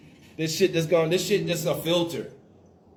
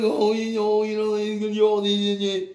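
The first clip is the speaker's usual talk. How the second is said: a lightly put-on fussy parent voice, louder; mocking parents; 3 semitones higher, 4 dB louder than usual. Parents nagging him about the jab, mock fussy voice. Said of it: "They're like".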